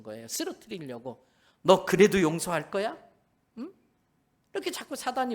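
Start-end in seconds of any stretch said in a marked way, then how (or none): 1.6-3.7 louder taunting devil, rising at the end; mock tempter's challenge; taunting Satan. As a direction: goad them like Satan. Pastor voices Satan tempting.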